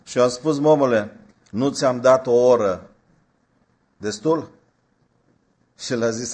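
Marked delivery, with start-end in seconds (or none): 0.6-4.5 louder, fed-up scolding; the preacher scolds the youth who asks for money, exasperated. Retold or imitated. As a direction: let him have it, annoyed.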